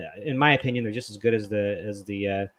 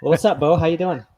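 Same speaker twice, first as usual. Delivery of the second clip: laughing; 7 semitones higher, 7 dB louder than usual. Real, not acted. Greeting the guest, laughing.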